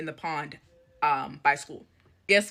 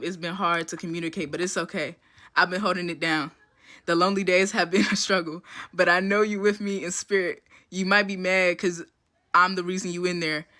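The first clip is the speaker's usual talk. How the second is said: mock-tender letter read, lightly hammed; dramatic reading. Shown as a demonstration. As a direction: read it like a mock love letter to her jailed crush. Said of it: "here's a dramatic reading of some of the letter".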